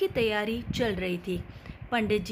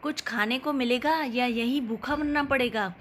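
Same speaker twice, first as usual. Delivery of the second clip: calling out; 3 semitones higher than usual. Acted. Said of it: "सास ने फिर आवाज़ लगाया".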